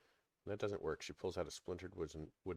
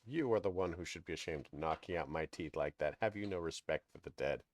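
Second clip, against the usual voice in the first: put-on angry old crone; 4 dB louder than usual. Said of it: "hisses angrily at the corpse".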